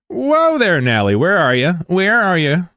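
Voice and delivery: high, drawn-up playful holler; high-pitched startled hollering; mock alarmed call-out. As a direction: call out as if searching for someone. Calling out to something in the game.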